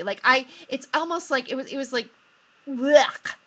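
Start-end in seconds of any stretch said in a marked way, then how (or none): 2.7-3.3 mock gag of disgust; a short retching blech. Disgust at the man's attitude.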